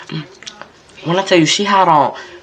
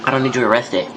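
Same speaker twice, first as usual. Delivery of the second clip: quiet anger; 4 semitones lower, 6 dB quieter than usual. Retold or imitated. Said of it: "her anger is like".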